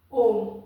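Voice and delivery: ओम drawn out over three beats; ओम with a long held vowel; prolonged Om. Shown as a demonstration. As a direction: stretch the vowel of ओम long, like a chant. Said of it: "जैसे इसका एक तो आपका होता है".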